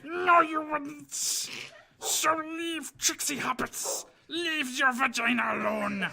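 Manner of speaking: Gollum voice. Shown as a demonstration. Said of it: "read something in his Gollum voice".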